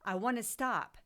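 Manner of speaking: retold outburst. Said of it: "I just said".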